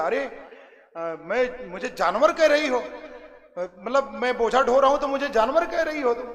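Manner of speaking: indignant, mildly acted husband; mock anger. Husband to wife who called him an animal, mildly acted anger. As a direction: voice a touch of offended disbelief. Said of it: "उसको गुस्सा आ गया, क्रोध आ गया".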